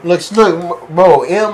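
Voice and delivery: ordinary delivery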